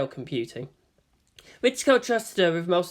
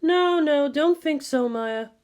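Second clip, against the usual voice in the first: chiding; 10 semitones higher, slower than usual. A narrator's reading. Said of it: "Ritsuko chided".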